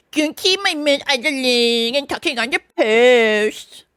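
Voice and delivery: slow, emphatic put-on order; curt sergeant. A narrator's reading. Sergeant protecting his post, curt. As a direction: scold her firmly. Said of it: "said to me very short".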